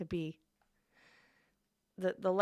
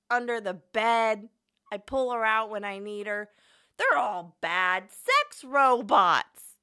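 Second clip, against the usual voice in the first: mock bigot voice; 7 dB louder than usual. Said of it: "pretend to be John".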